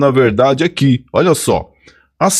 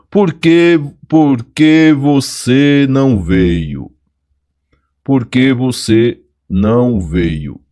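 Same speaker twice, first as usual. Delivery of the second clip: Por que said slowly, stress on Por; demo question; slower than usual. Shown as a demonstration. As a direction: model the question for students. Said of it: "vai ser porquê separado e sem acento". (pergunta de exemplo com ênfase no por)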